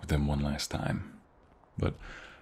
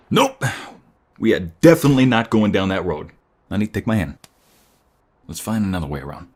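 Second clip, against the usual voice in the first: loud, urgent call, higher and fast at the end; alarmed shout; 4 semitones higher, 12 dB louder than usual. Acted. Boyfriend steering his partner away from the robbery, shouting urgently. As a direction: hurry her away from danger.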